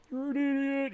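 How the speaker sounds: high taunting put-on voice; mock heckler. Streamer voicing an imagined heckler at himself, high mock jeer. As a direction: jeer at yourself in a silly voice.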